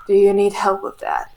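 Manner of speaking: quiet, quick and flat; deadpan. Retold or imitated. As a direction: deliver it totally deadpan. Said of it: "With the most deadpan voice".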